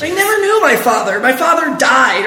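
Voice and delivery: shouted with big emotion; dramatic shout. Acted. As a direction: belt it out dramatically. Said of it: "Good, yes, good. Dig deeper".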